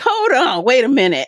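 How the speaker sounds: a friend calling her out for disrespect, indignant; indignant objection. Retold or imitated. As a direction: stop her mid-sentence in protest. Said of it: "And he like".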